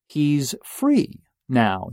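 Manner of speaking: free stretched out and slowed; emphasis on free. Retold or imitated. Quoting the seatmate, stressing free. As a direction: lean hard on the word free. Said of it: "Extra emphasis on free".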